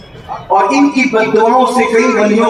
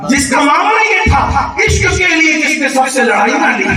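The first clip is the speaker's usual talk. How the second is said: raised-pitch sermon oratory; fervent preaching; 4 semitones higher than usual. Acted. Preacher praising his imam before the crowd, fervent preaching. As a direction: proclaim the praise in ringing phrases.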